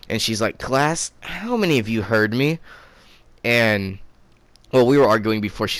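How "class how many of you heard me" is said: higher-pitched mock teacher question; challenging teacher. Teacher asks the class who heard her, challenging.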